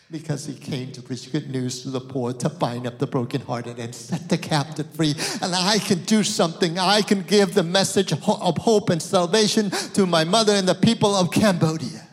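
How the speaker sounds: loud, ringing sermon proclamation; full-force preaching. Acted. Pastor preaching hope to the congregation, loud. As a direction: proclaim it with fire.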